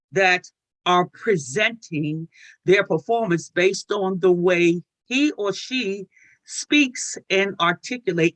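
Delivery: ordinary delivery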